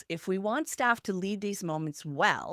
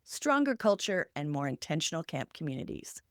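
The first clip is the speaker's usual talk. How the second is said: polished intro read; podcast intro; 2 semitones higher than usual. Acted. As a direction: open the show like a host.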